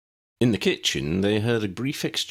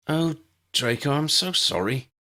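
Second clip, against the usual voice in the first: sympathetic; 9 semitones higher than usual. A narrator's reading. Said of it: "Ginny commiserated".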